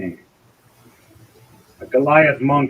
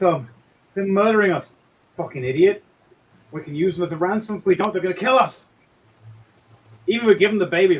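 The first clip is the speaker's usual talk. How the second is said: higher, urgent back-and-forth debate; panicked arguing captors; 5 semitones higher, 5 dB louder than usual. Acted. Game master voices captors debating their prisoners, agitated. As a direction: argue in agitated, raised voices.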